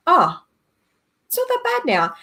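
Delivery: acted pleasant realisation after a cry; mild relieved realisation. Speaker voicing someone who has stopped crying, mildly relieved.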